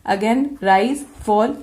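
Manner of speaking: "Again, rise, fall" with rising tune. Shown as a demonstration. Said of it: "you will put the tone like that".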